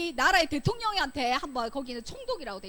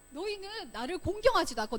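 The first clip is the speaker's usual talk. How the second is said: God calling the people to account, pitched higher; confronting accusation; 5 semitones higher than usual. Acted. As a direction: press the accusation firmly. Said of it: "이렇게 따지듯이 말했어요".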